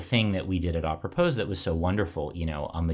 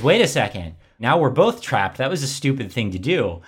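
higher and louder, lightly acted dismay; mock exasperation; 7 semitones higher, 7 dB louder than usual. Friend realises they are both trapped, light mock dismay. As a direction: play the friend's disbelief, hammed lightly.

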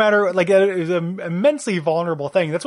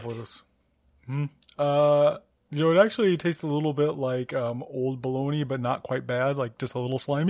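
dumb guy voice; 2 semitones lower than usual. Pretend. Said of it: "I'm using this voice".

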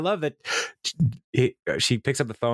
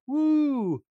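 high, slow, gushing cheer in April's voice; excited cheer; much slower than usual. Retold or imitated. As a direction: cheer for your boss, way up high and drawn out. April cheering for her boss.

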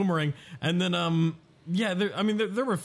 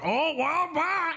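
high, breezy sign-off; Covington brushing it off; 13 semitones higher, slower than usual. Retold or imitated. Covington leaving after security throws him out, high breezy bye. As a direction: toss off a chirpy high bye. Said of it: "And he's like".

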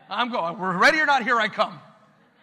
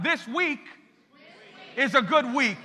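one more time, stronger; 4 semitones higher, 4 dB louder than usual. Shown as a demonstration. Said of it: "One more time".

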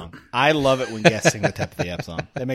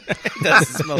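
squeaky voice; slower than usual. Pretend. Squeaky laughing voice.

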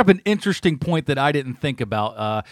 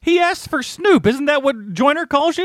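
dad voice; 12 semitones higher, 4 dB louder than usual. Retold or imitated. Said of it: "He just goes".

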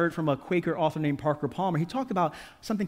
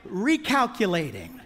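slow, smug machine voice, half laughing; passive-aggressive GPS. Retold or imitated. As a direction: shame the driver with one slow word. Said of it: "this passive-aggressive kind of voice of shame".

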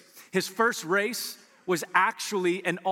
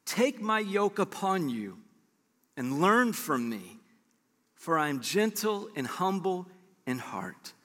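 slow gentle quote; slower than usual. Retold or imitated. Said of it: "did you hear what he said".

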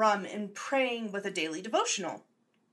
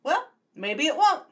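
sinister tease; 6 semitones higher, 6 dB louder than usual. Acted. Ominous taunt to audience.

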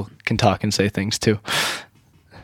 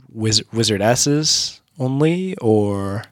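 whispering; much slower than usual. Real, not acted. Tries an odd word, whispers.

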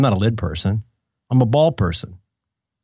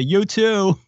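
a little higher, blurted you too; awkward reply; 5 semitones higher than usual. Retold or imitated. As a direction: answer on reflex. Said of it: "the person at the airport says".

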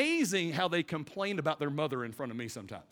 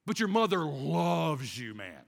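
fatherly reassurance; 2 semitones lower than usual. Retold or imitated. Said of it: "I look at 'em and say this".

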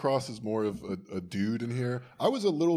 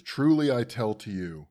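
mildly catty; 4 dB louder than usual. Retold or imitated. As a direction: quote reading with a touch of cattiness. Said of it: "by the way, little catty".

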